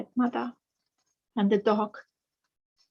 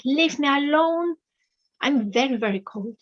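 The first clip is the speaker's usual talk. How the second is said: angry; 4 semitones higher than usual. Acted. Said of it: "really angry".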